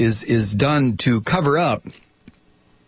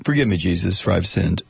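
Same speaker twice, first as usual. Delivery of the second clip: mock penitent; 6 semitones lower than usual. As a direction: fake contrition, pitched down. Mock sinner's plea.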